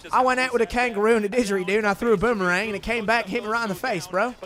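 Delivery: fast, bad Australian accent drifting British. Streamer attempting Australian for chat, bad Australian accent. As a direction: rattle off a jokey Australian accent. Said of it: "Every time I try to do an Australian accent".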